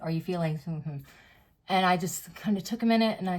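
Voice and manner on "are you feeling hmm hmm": softer, hummed in place of the word; quiet censored question. Retold or imitated. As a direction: lower the voice and hum the banned word. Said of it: "I can't say the word".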